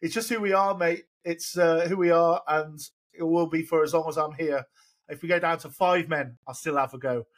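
lightly imitated Australian accent; Aussie accent. Podcaster reading the manager's defiant quote to Aussie viewers, in a mock Australian accent. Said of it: "this is my, uh, Aussie accent".

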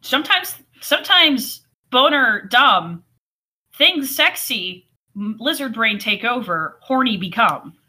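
slow, halting mock caveman; caveman talk. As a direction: spell it out like a dim brute. Mock caveman logic of Christian.

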